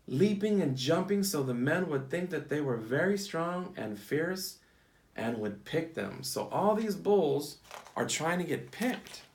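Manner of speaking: storybook read-aloud for a class; picture-book storytime voice; reading to children. Acted.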